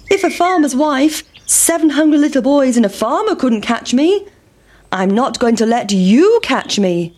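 lightly voiced taunting pancake, starting high; defiant pancake. Pancake taunting the farmer, defiant. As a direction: boast high, then settle down on the last part.

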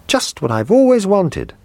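put-on high, thrilled child's voice; a little boy who got his wish; excited boy. A narrator's reading. Boy seeing the tin soldier on the table, thrilled and high. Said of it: "he cried".

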